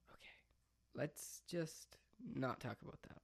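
spooked, unvoiced whisper. Real, not acted. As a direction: hush it as if the house might hear. Spooked by shower noise.

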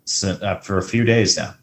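dry, fake enthusiasm; sarcastic. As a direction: say it like you mean the opposite. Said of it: "uh, sarcastic".

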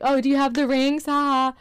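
mock casual. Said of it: "And I was like".

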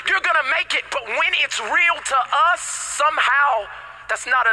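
excited, high-pitched sermon delivery; impassioned preaching. Real, not acted. Preacher promising victory to struggling believers, impassioned preaching.

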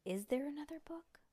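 hushed unvoiced whisper. Real, not acted. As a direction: whisper the question. Whispered aside.

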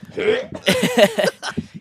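very high-pitched little squeal; imitated squeal. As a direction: let out a thin, high mock squeal. Acts out sound while checking nose.

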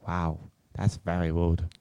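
put-on slow, low, offended Asian-accented server; mock Asian accent. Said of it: "I don't know what accent that was".

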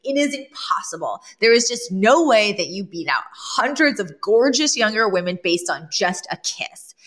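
imitating an incredulous put-down; scoffing disbelief. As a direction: scoff at the claim, slowing at the end. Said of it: "almost laughs in her face".

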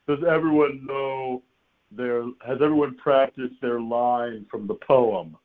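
slow, drawn-out teacher imitation; drama teacher. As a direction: address the class with deliberate, stretched words. Imitating drama teacher addressing the class.

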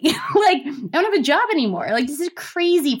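laughing, high and fast at her own panic; half-laugh, half-panic, rattling it off; laughing disbelief. Real, not acted.

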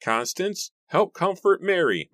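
loud command building in pitch; ordering. A narrator's reading. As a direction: call out an urgent order. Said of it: "Matthew ordered".

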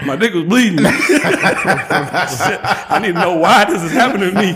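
can't stop cracking up while telling it; laughing while telling. Real, not acted. Telling friends the embarrassing story, laughing through it.

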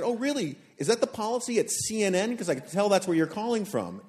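mild imitation of a sarcastic retort. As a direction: needle him with mock surprise. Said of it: "And I said".

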